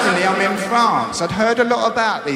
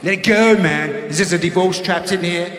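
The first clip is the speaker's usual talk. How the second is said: hippie healer voice. Retold or imitated. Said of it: "he said".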